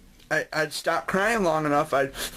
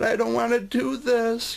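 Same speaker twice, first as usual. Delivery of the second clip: put-on little kid; 9 semitones higher than usual. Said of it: "And I said".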